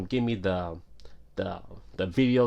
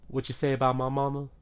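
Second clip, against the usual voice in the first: fast, heated comeback, pitch raised; angry retort; 4 semitones higher, faster than usual. Retold or imitated. O-Dog to the cashier who insulted his mother, heated and fast. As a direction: snap back defending your mama.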